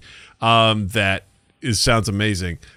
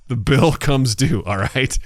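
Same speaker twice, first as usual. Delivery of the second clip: laughing ominous warning; slower than usual. Pretend.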